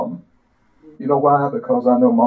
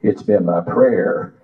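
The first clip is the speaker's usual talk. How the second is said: slow, sing-song preacher recitation; poem recital. Acted. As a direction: recite it like a hymn from the pulpit.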